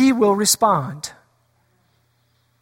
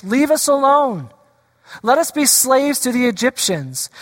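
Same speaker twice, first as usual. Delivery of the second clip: grumbling people; 4 semitones higher than usual. Retold or imitated. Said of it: "the people grumbling and yelling at Moses".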